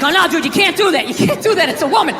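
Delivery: half-mock cautious brain; voice of reason. His sensible side warning him off, lightly voiced. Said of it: "the other side of my brain's like".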